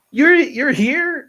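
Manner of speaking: high, loud and slow; stunned surprise. Retold or imitated. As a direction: drag it out in total disbelief. Friend already in town.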